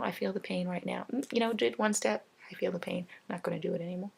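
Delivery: soft, polite, firm refusal; calm, courteous no to the therapist. Pretend. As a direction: turn them down gently but don't budge. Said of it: "very politely be like".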